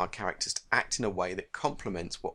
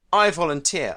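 breathless, louder gasp of words; 7 semitones higher, 11 dB louder than usual. Acted. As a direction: blurt it out on a gasp. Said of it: "I gasp".

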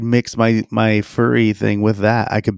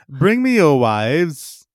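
slow, higher, drawn-out royal command; king voice; 6 semitones higher, much slower than usual. Pretend. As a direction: try a pompous king decree. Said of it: "I can't even do the voice".

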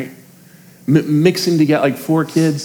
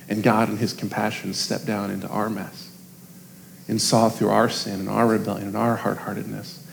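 soft closing words; 5 semitones lower, 9 dB quieter than usual. Real, not acted. Closing sermon cadence.

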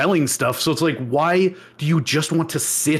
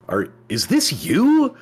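mock appalled reader. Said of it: "anyone who reads it is like".

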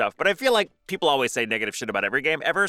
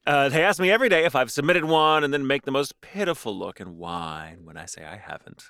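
reading aloud. Acted. Reads listener story.

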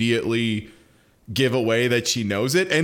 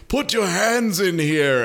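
slow, higher, eerie hostess voice; creepy slow voice; 5 semitones higher than usual. Retold or imitated. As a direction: draw it out like a creepy host. Mom's creepy invitation.

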